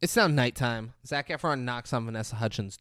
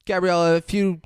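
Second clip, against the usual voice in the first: mock desperate plea; 2 semitones higher, 5 dB louder than usual. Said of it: "and he's like".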